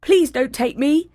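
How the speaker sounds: put-on a bigger but still young goat; middle goat. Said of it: "said the second billy goat".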